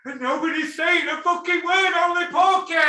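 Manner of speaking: high, strained angry yell; indignant shout. Real, not acted. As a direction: rant at the top of your pitch. Indignant rant about boxing silence.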